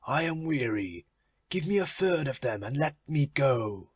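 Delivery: lightly voiced Death, weary and bored; a hint of a tired Death asking to leave. Death speaks to Avarice.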